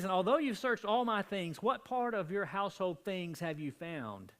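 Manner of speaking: indignant. Retold or imitated. Jacob confronting Laban.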